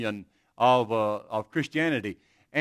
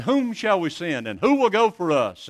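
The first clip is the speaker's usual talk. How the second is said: the call rings out louder; booming divine summons; ringing call; 4 semitones higher, 5 dB louder than usual. Retold or imitated. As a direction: proclaim it like a summons from heaven. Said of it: "He said".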